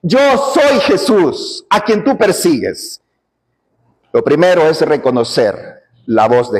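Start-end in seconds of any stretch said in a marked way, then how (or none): 0.0-3.0 slow, solemn divine answer; Jesus answering Saul, weighty and slow; measured, majestic declaration. Acted. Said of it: "Entonces él te dice".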